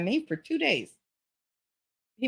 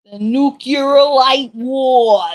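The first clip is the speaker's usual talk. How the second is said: mock movie trailer; 5 semitones higher, 11 dB louder, much slower than usual. Mock dramatic announcement.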